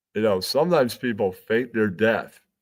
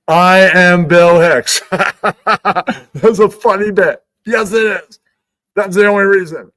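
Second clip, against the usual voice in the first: high, loud, slow self-satisfied boast; mock proud voice; 8 semitones higher, 7 dB louder, slower than usual. Comic brags about his own bit in a put-on voice. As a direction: savour your own joke.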